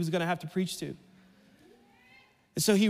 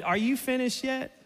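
laughing God voice; 4 semitones higher than usual. Acted.

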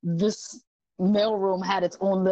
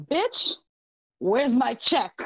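angry customer; 3 semitones higher, slower than usual. Retold or imitated. Retold angry customer at mailbox.

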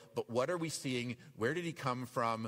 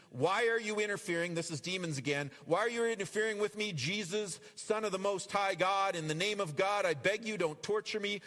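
screaming demon; 5 semitones higher than usual. Acted. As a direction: beg Jesus in a raised, shrieking voice. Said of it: "he screamed".

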